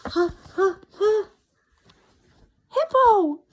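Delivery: high, loud gasping laugh; gasping laughter. A narrator's reading. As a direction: gasp out the name laughing. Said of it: "gasped the rhinoceros".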